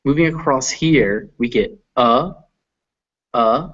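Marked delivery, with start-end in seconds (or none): 1.4-3.7 short central uh, uh; uh vowel. Shown as a demonstration. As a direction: sound the uh as in but. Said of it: "like but".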